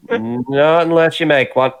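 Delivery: slow stern warning; menacing. Acted. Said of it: "It's like".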